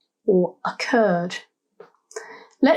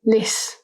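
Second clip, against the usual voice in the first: "lis" alone as the stressed syllable; stressed first syllable. Shown as a demonstration. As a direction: isolate "lis" from the word. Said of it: "emphasis is on the first syllable".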